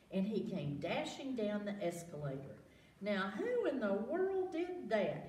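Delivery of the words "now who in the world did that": raised startled exclaim. A narrator's reading. Night watchman hearing a crash, exclaims in surprise. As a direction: call out suspicious and startled. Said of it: "he exclaimed".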